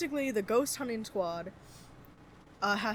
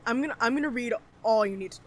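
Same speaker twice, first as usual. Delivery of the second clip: talking between hiccups; hiccuping; faster than usual. Real, not acted. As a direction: speak with the hiccups catching you. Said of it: "Sorry, I have the hiccups".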